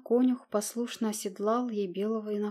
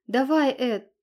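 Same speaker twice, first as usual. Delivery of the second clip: loud, higher, scornful challenge; cornered woman lashing back; Anna hurls defiance at the prince, loudly; defiant shouting; 5 semitones higher, 7 dB louder than usual. A narrator's reading. Anna defies them with a firebrand.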